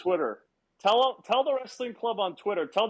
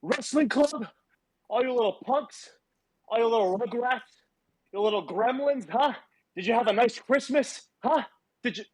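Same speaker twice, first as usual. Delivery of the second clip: wrestling promo; 2 semitones higher than usual. Acted. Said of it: "I'm cutting a promo on children".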